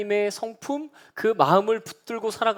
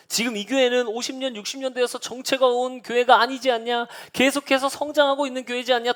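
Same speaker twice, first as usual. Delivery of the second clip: rising to a higher, louder eager declaration; eager pastor; 7 semitones higher, 3 dB louder than usual. Retold or imitated. Visiting pastor at lunch, declaring hope for the church, excited. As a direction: build from hopeful to a loud call to dare. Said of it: "막 이러세요".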